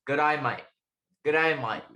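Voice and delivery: practised Aussie greeting, "mate" sounding like "might"; Australian accent. Acted. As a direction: drill the Australian accent in short repeated tries. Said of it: "in the Australian accent".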